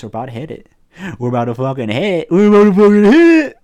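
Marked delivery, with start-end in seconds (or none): 2.3-3.6 louder, higher and fast hype yell; shouting. Real, not acted. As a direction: yell it out with excitement. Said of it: "repeat louder".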